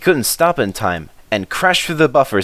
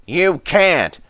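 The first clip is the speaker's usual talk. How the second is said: high, snippy van voice; spiteful brake van; 9 semitones higher than usual. Acted. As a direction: talk back as a cheeky van. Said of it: "said the van".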